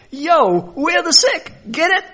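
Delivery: high, loud street-style yo; hyped cheer. Retold or imitated. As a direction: celebrate like a high-five. Tax collectors celebrating.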